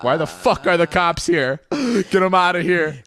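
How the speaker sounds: high, drawn-out mock indignation; outraged parents. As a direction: imitate parents appalled by cops at the door. Parents outraged at cops arriving.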